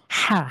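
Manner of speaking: "হা" as a carefully articulated Arabic h. Shown as a demonstration. Teacher correcting how students say the letter ha, careful demonstration. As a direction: sound out "হা" on its own as a model. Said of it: "হার উচ্চারণ ঠিক করতে হবে".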